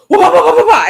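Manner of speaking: high, loud mock toddler wail. A toddler attacking the balloon, shrieking in a mock wail. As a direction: wail it like a rampaging toddler, half laughing. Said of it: "He goes".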